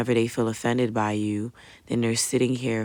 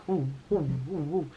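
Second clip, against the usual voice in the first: short repeated hollow "ooh" sounds; imitated hollow ringing; 4 dB quieter than usual. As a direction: mimic muffled ringing in the ears. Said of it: "I started hearing just hollow".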